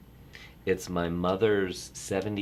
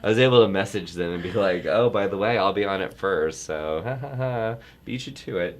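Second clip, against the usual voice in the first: mock gloating; 2 semitones higher, 6 dB louder than usual. Teasing family he goes first.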